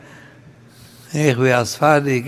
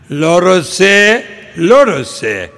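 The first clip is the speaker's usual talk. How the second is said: indignant protest; 3 semitones higher, 5 dB louder, faster than usual. Acted. Fallen man protests to heaven.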